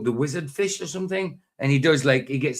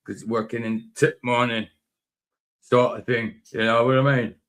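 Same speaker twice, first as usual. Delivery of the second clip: put-on Northern English working man's accent; slipping into a Northern English accent; Northern England accent. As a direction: talk like a Northern England workman. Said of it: "don't know why I did that accent".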